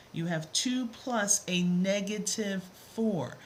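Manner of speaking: "negative" leaned on clearly; stress on negative. Shown as a demonstration. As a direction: hit the word "negative" so it belongs to the four. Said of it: "listen to how I'm saying it".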